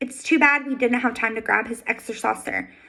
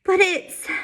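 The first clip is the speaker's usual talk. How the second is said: gulping sob; 7 semitones higher than usual. A narrator's reading. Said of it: "he gulps with the force of a sob".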